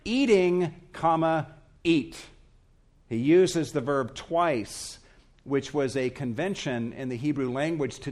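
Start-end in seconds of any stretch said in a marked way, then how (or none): 0.0-2.2 raised, loud, punctuation spoken aloud; literal word-by-word reading. Shown as a demonstration. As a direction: spell out the literal wording piece by piece.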